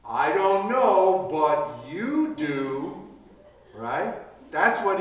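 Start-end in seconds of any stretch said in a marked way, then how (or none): 0.1-3.1 trusting answer. Retold or imitated. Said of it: "He should have said something like".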